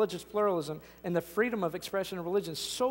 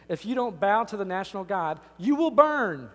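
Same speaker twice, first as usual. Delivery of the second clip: threatening king; 3 semitones higher, 6 dB louder than usual. Retold or imitated. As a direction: thunder it out like a tyrant king. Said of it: "you have the king saying".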